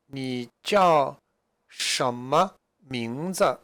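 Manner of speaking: "什么名字" drawn out slowly, each syllable clear; slow model question. Shown as a demonstration. Teacher reading Zhang Laoshi's question slowly to students. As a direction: spell out "什么名字" slowly for learners. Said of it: "Zhang Laoshi asked the question here".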